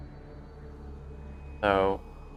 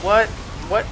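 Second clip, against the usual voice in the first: surprised; 7 semitones higher than usual. Real, not acted. Indignant surprise at opponent's play.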